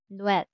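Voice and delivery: "Noel" squeezed into one quick syllable, nwel; vowels blended. Shown as a demonstration. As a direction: say "Noel" with o and e merged. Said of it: "Hindi mo siya pwedeng bigkasin ng".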